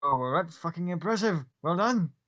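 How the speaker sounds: a big friendly soldier slapping a shoulder; hearty Gith soldier. Acted. Gith praising the caster.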